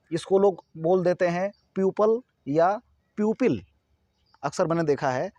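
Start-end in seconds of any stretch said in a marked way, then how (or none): 1.7-3.6 "प्यूपल" and "प्यूपिल" with a 'pyoo' start; mispronunciation. Shown as a demonstration. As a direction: say people wrongly as "प्यूपल", then "प्यूपिल". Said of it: "गलत इसका pronunciation करते हैं". ("प्यूपल", "प्यूपिल" में 'प्यू' बोलें)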